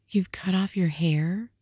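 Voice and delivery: disbelieving, breathless whisper; stunned whisper. Acted. Jim asking his wife in stunned whisper. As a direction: barely get the words out. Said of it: "asked Jim slowly".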